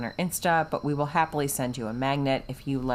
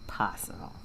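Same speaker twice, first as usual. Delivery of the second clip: slow drawn out; slower than usual. Acted. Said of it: "in the most obnoxious way".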